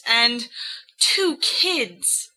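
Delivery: Lily's voice pitched high, incredulous; Lily, indignant and disbelieving. A narrator's reading. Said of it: "says Lily".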